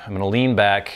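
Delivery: talking around a pipe stem; pipe in mouth. Real, not acted. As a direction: pipe in mouth, puffing between words. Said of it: "let me relight my pipe".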